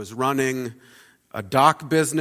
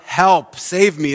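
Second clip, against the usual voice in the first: crying out; 4 semitones higher, 7 dB louder, slower than usual. Retold or imitated. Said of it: "you start to cry out".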